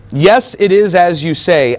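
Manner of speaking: slow, emphatic affirmation led by "Yes". Shown as a demonstration. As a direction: stress on "Yes", drawn out slowly. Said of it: "a little bit more emphatic in the English".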